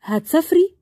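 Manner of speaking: nervous, short question; a touch of tension in the question. Acted. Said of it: "وقال بتوتر".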